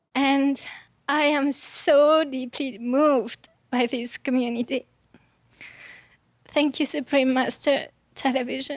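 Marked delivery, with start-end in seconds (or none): none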